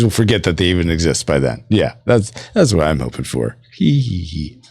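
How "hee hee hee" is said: impish fake hee-hee; mock giggle. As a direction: spell out a sly little laugh. Mock giggle after teasing viewers.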